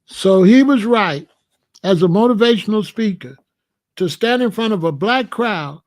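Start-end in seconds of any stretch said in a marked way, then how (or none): 0.0-3.4 1 loud emphatic. Real, not acted. Arguing with caller about speaker.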